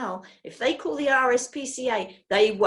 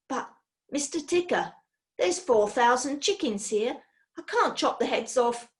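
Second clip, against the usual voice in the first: higher, anxious protest; pleading assistant; 4 semitones higher than usual. Acted. Assistant protesting to his boss, a higher anxious plea. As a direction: beg off the dirty job.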